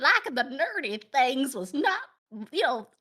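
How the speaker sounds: lightly voiced old grandma; a hint of a reminiscing grandma. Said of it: "I gotta put on my grandma voice".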